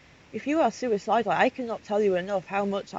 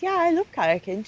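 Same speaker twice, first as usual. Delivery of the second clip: high-pitched, sarcastically chirpy imitation; put-on perky texting voice; mock cheerful; 10 semitones higher, 4 dB louder than usual. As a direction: act out fake happiness in a much higher voice. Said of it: "with a happy face".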